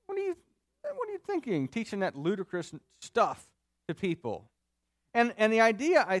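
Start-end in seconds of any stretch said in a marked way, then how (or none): 0.1-4.5 incredulous, opening very high then dropping; mock-baffled challenge; mocking questioner. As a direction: scoff at him in high-pitched disbelief. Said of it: "the questioner is sort of mocking Paul".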